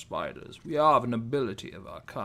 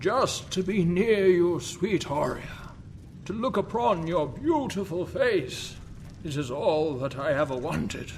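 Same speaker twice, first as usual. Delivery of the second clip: swooning stage lover; romantic lead; 3 semitones higher than usual. Acted. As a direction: declaim love lines, a touch higher. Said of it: "Two Bridges".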